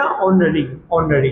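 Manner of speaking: teacher modelling ऑनरी for the class; model pronunciation. Shown as a demonstration. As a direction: demonstrate ऑनरी twice, starting on the vowel. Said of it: "pronunciation होगी क्या होगी".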